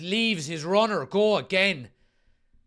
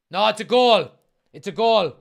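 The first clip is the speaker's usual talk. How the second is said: excited; 6 dB louder than usual. Real, not acted. VAR check confirms goal.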